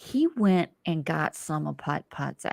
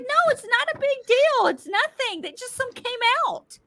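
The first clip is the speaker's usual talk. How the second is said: retold husband. Acts husband playing down spilled ashes.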